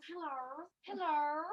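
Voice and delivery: hello in a British accent. Shown as a demonstration. Student showing off a British accent in class, British. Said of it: "My British accent is like".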